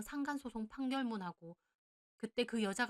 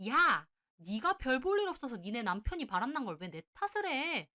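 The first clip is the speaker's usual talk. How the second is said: loud, higher, venomous tirade; screeching back; 4 semitones higher, 4 dB louder than usual. Acted. Mistress screaming back at the wife, shrill fury. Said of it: "다시 악다구니를 쓰더군요".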